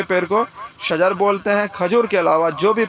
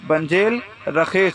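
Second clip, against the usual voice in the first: slow teaching demo; slower than usual. Shown as a demonstration. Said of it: "تو آپ بولیں گے بنجیل رخیص".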